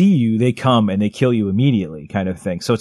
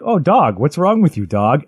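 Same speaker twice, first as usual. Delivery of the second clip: higher, lightly voiced worried call to a hurt dog; worried girl calling dog; 4 semitones higher than usual. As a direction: coo anxiously at the wounded dog. Voicing the girl finding her dog.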